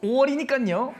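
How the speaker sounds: high, loud playful announcement; excited reveal. Acted. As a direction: burst out with the answer.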